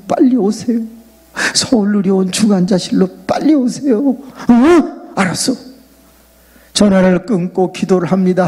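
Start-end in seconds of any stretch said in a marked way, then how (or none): 0.1-4.1 urgent wife. Retold or imitated. Wife's urgent phone call. 4.5-5.5 a startled, high and loud 응?; shocked. Retold or imitated. Shocked by the news.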